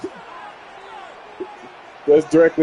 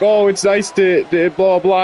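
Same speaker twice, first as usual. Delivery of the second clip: a singer; slower than usual. Retold or imitated. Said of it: "like, an old person voice kind of thing".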